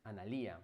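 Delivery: "Analia" as a-na-LÍ-a, low and soft; soft "Analia" with stressed I; accent on the I. Shown as a demonstration. Trying out a viewer's name, softly stressing LÍ in "Analia". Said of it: "con acento en la I".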